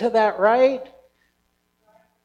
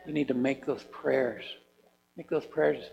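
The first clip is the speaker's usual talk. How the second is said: voice of God; 7 semitones lower, 8 dB quieter than usual. Retold or imitated. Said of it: "God saying".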